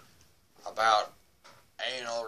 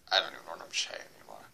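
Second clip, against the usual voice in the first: whisper; 5 semitones lower, 7 dB quieter, much faster than usual. Real, not acted. Muttered aside to himself.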